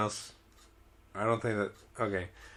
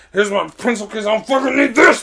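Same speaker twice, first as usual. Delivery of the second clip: loud, raised tantrum voice; raging little boy; 4 semitones higher, 4 dB louder, faster than usual. Retold or imitated. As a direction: build to a kid's defiant yell. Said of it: "The boy comes back around".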